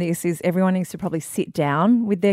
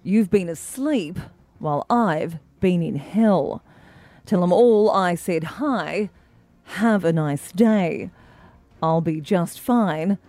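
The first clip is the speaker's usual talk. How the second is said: newsreader voice. Acted. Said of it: "bung on my old newsreader voice".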